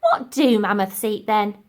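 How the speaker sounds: lightly voiced brash old lady; a hint of a pushy old woman; Dotty voice. Old lady pressing the professor, brash voice.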